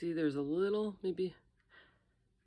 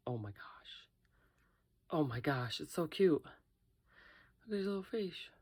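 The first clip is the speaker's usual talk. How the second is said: overwhelmed by cuteness; slower than usual. Real, not acted. Sees finished cute lizard.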